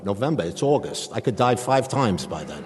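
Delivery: loud, comic exasperation; indignant disbelief. Retold or imitated. Patient balking at a November heart appointment, indignant disbelief. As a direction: protest it loudly, hammed up for laughs.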